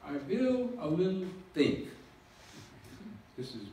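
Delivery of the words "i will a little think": put-on Einstein quoted in a German accent, higher and louder; a light German-accented Einstein. Lecturer quoting Einstein to the audience in a German accent. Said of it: "Einstein with a German accent".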